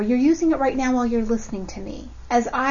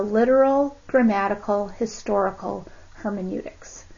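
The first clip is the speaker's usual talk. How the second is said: spaced-out, deliberate technical phrase; slow and careful. Real, not acted. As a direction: say each long term carefully. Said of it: "I have to say that slowly".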